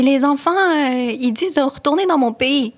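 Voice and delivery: high-pitched retold kid's complaint; high little-kid voice, telling on classmates; child complaining. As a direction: imitate a child reporting teasing to mom.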